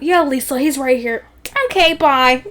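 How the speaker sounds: bartender in a light mock Chicago accent; put-on Chicago accent. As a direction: answer the bar phone in Chicago accent. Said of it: "why I did the accent".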